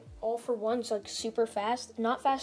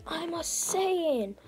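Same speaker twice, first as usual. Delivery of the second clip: mock dramatic reveal; 6 semitones higher than usual. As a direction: imitate a hero proudly announcing himself, pitched up. Retold dramatic reveal by Deku.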